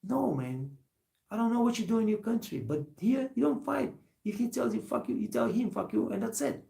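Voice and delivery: lightly voiced mentor laying down the rule; older coworker advice. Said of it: "It's like".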